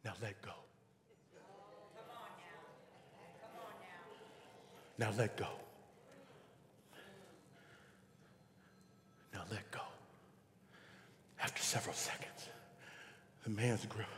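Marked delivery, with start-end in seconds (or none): 0.0-9.8 calm instruction. Acted. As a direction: say it quietly, with total assurance. Voice from above instructs hanging man.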